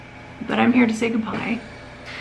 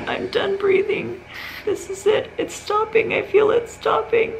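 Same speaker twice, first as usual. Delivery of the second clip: high voice breaking into a real cry, partly whispered; crying through the words as panic takes over; 13 semitones higher than usual. Real, not acted. Telling viewers about her panic attack, crying high and breaking. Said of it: "That weird cry thing is from my cancer".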